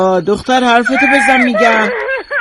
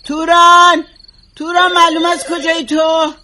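calling out; 4 semitones higher than usual. Acted. Calling maid from room.

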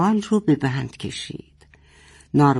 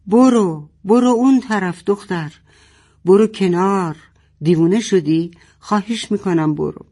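higher, louder roar; 4 semitones higher, 3 dB louder than usual. Acted. Father roaring at his daughter to move aside. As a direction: roar at her to get away. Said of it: "پدر نعره زد".

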